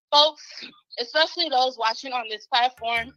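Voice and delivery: breathless, catching air between phrases; out of breath. Real, not acted. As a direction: read it winded. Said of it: "I'm out of breath".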